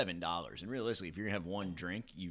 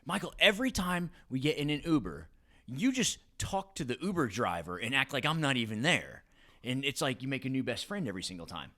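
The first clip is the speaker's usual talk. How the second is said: higher, louder imitation of a nagging wife; retold complaint, pitched up; mock wifely complaint; 4 semitones higher, 3 dB louder than usual. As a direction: lightly act out an exasperated wife. Retells wife's complaint about Uber chats.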